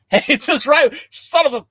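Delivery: loud, high outburst; loud comic exasperation at Brandon; exasperated shout. Real, not acted. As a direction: cut yourself off mid-curse. Friend's joke catches him.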